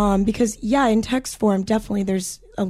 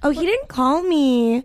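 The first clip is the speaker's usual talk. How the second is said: slowed, higher, rising at the end; upspeak; 5 semitones higher, slower than usual. Shown as a demonstration. Friend tries the upspeak line, slowed and higher. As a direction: keep going up like it's a question. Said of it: "Like, um".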